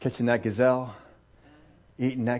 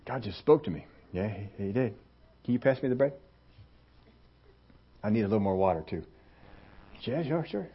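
casual table chat; 9 semitones lower, 13 dB quieter than usual. Acted. Prophets chatting over a meal.

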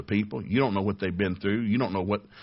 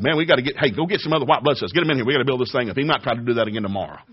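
rallying the troops; 3 semitones higher, 4 dB louder, faster than usual. Pretend.

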